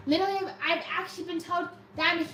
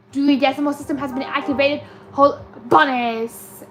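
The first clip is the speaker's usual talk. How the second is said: mock announcer; 8 dB louder than usual. Streamer announcing the librarian's system, mock-grand. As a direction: announce it like an alarm, stretching the end.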